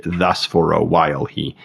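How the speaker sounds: "thus" and "while" stressed as a dactylic pattern. Shown as a demonstration. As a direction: scan it, stressed, unstressed, unstressed. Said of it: "so we have dactylic feet".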